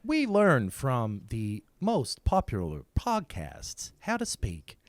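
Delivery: slow, stilted AI voice; a malfunctioning AI talking; robot voice. Acted. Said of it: "doing a robot voice".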